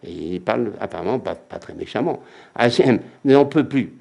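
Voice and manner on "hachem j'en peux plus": exhausted plea. Acted. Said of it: "Il dit".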